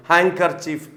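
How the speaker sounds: "ഹാൻകർച്ചീഫ്" with the nd turned into ng before k; assimilated pronunciation. Shown as a demonstration. Teacher showing how sounds change, "ഹാൻകർച്ചീഫ്" with ng. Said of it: "ങ് sound ആയിട്ട് മാറുന്നു".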